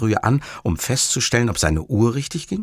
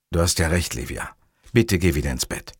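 lower, subdued plea; placating; 4 semitones lower than usual. Acted. Montalbano placates Livia, low and subdued. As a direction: give in gently, voice dropping.

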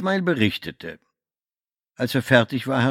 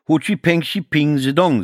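mock Chinese; 6 semitones higher, 4 dB louder than usual. A narrator's reading. Mock Chinese phrase thrown at guard.

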